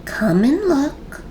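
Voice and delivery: high, slow, coaxing lilt; mother's gentle invitation. A narrator's reading. Mother calling big sister to the baby, coaxing lilt. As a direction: beckon a child over in a high lilt.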